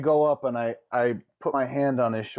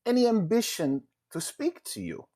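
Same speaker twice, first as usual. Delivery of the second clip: a lightly raised, measured noble tone; different tone; 4 semitones higher than usual. Acted. Player comforting the pouty NPC, lightly raised gentle tone. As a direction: speak up higher and carefully, offering kindness. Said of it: "in a different tone".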